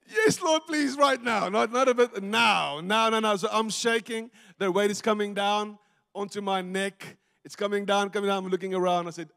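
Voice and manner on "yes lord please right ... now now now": high, loud, urgent begging; acted-out cry for rescue; desperate plea. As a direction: plead for help in a panic. Struggling under weight, begs God.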